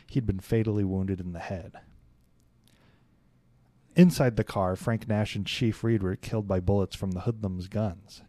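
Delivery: measured read-aloud of a case report; steady documentary-style narration. A narrator's reading. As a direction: read it out like an official account.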